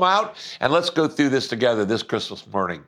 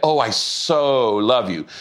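mock gushy guy; 3 semitones lower than usual. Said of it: "You don't walk up to people and say".

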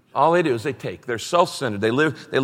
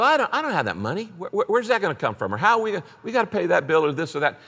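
higher, hurried fretting; mild mock worry; 4 semitones higher, faster than usual. Preacher acting out his own doubts about giving, mildly worried. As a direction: fret quickly over where the money comes from.

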